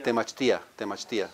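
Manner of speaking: "Temachtia" as te-mach-TEE-a; "Temachtia" with stressed I, separate from A; accent on the I. Shown as a demonstration. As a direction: model "Temachtia" twice, weight on the I. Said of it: "Sounds like an accent on the I".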